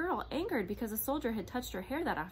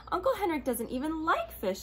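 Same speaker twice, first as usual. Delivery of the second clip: laughing; 8 semitones higher, 5 dB louder than usual. A narrator's reading. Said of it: "she said, laughing".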